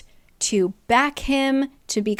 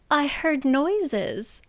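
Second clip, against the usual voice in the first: small, dazed voice; 5 semitones higher, much slower than usual. Retold or imitated. Elaine wanders down, sleepy.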